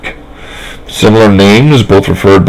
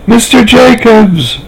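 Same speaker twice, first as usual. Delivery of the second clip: put-on high, slow, drawn-out little girls' cry; excited children calling out a name; girls exclaiming together; much slower than usual. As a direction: call his name like two delighted little girls. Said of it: "they both exclaimed".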